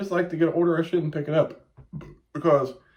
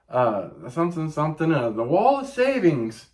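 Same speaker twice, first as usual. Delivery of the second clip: mock store announcer. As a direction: read it like a bored store PA. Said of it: "They're like, uh".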